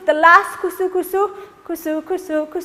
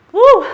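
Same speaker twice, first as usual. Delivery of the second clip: excited whoop; 8 semitones higher, 9 dB louder than usual. Real, not acted. Finishing the dance.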